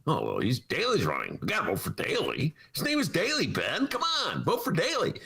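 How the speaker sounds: mock Daley voter. Voicing old Daley voters.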